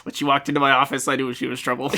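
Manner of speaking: fast hardboiled detective monologue; hardboiled private eye narration; noir detective. Acted.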